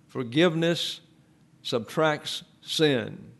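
slow, each word spaced out and weighted; slow emphatic repeat. Shown as a demonstration. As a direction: spell it out slowly, like a rule to memorise.

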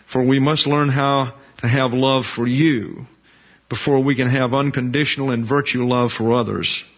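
earnest preacher's prayer to close the lesson; closing prayer. Real, not acted. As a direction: pray it sincerely to the Father.

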